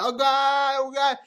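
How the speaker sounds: high overwhelmed "oh God"; mock moaning. Guy imitating his own reaction to a partner, high mock moan. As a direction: pitch way up, hammed-up overwhelm. Acting out reaction during sex.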